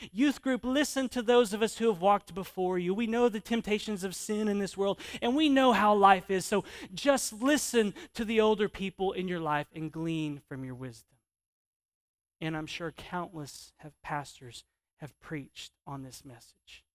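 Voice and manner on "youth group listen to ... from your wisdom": raised-pitch mock exhortation. Preacher voices elders exhorting youth group.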